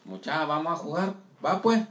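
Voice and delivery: lightly put-on Guatemalan accent; playful Guatemalan Spanish. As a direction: sound like a Guatemalan kid calling friends to play. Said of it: "¿cómo hablan en tu rancho?".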